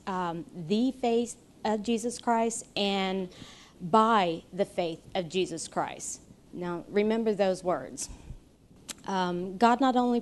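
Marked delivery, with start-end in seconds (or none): 0.5-2.7 deliberate stress on "the faith of Jesus Christ"; emphasized words. Shown as a demonstration. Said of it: "I emphasize the words". 3.8-6.2 "by the faith of Jesus Christ" with firm stress on "by"; emphasized words. Shown as a demonstration. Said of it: "I emphasize the words".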